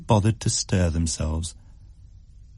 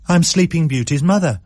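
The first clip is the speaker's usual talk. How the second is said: put-on high, bright child voice; a girl announcing her costume; Libby proud; 8 semitones higher, 3 dB louder than usual. A narrator's reading. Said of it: "said Libby".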